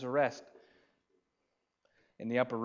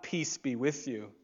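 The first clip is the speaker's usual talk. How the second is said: gentle greeting. Acted. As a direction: offer peace gently.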